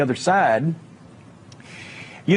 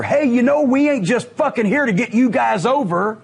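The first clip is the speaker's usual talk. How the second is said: angry yell; 4 semitones higher than usual. Retold or imitated. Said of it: "yelled at another wrestler in anger".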